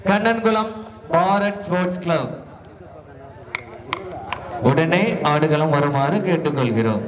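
steady public address announcement; announcer. Acted. Announcer declaring the winning team to the crowd. Calls teams to court one.

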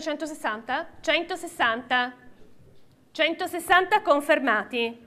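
rhythmic auction calling; auctioneer. Real, not acted. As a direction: call the bids like an auctioneer. Live auction, calling bids.

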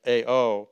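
"A O" with the weight on the O; stress on O. Shown as a demonstration. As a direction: lean on the final O in "A O". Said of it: "emphasis on the O".

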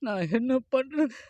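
crying. Acted. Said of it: "சரி, அழுவாதயா".

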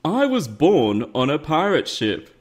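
words said round a held tongue; holding tongue. Shown as a demonstration. YouTuber doing a viewer's challenge, speaking with tongue held. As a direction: say it while pinching your tongue. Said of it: "I'm holding my tongue".

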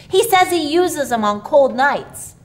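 put-on high, loud eager child's voice; little boy excitedly explaining to papa. A narrator's reading. Billy tells papa about the boards, eagerly.

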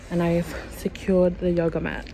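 hushed whisper. Real, not acted. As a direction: whisper it secretly. Whispering in store.

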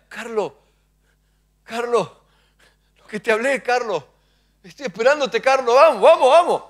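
patient God urging, growing insistent; God calling. Retold or imitated. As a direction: call him gently, then push. God calling Carlos repeatedly.

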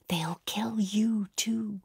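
slow breathy whisper. A narrator's reading. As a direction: whisper it slowly in fear. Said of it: "She whispers".

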